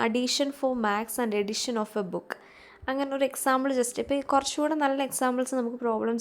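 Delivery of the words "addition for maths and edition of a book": slow reading. Shown as a demonstration. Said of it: "ഇവിടെ ഒരു sentence പറയുന്നതാണ്".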